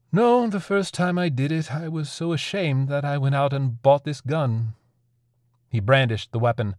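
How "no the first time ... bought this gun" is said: high, insistent opening that gradually settles; protest, then confess with shame; strained, ashamed admission; agitated confession. Acted.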